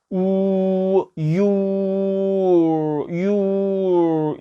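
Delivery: long, held "우" sliding into "유"; sustained teacher's vowel demo; drawn-out vowel demo. Shown as a demonstration. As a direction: stretch "우" and "유" slowly, tongue pulled back. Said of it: "이 상태에서".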